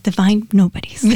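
lightly mimicked radio announcer; imitated radio voice. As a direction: say the name like a radio host, playfully. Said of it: "such a radio voice".

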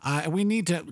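usual speaking voice

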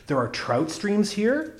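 slow, hushed awe at the thought of trout; almost reverently. Acted. Stranger on the train asking about trout streams, reverent and slow. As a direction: ask it like a holy question, slowly. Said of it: "He spoke almost reverently".

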